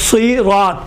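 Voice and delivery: صراط with thick "sui" opening and full "raat"; emphatic rounded s in صراط; heavy saad. Shown as a demonstration. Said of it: "صراط نہیں ہوگا".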